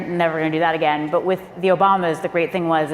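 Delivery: ordinary delivery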